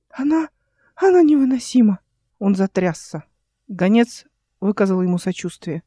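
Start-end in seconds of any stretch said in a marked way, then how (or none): 0.1-2.0 high, exasperated uncle bursting out; indignant complaint. A narrator's reading. Uncle complaining to the envoy, exasperated. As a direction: complain shrilly that she is unbearable.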